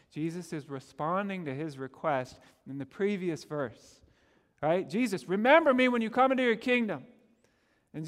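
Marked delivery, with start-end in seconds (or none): 4.9-7.0 pleading thief. Acted. Thief's plea quoted in sermon.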